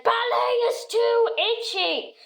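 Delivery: high, whiny complaint; whiny protest. Retold or imitated. Girl protesting to her ballet teacher, whiny and high. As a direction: whine it like a cross little girl.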